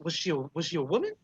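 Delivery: lightly voiced old hostess; puzzled elderly dwarf barkeep. Dwarf bartender asking about the described stranger, puzzled. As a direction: fumble for the memory, stopping and restarting.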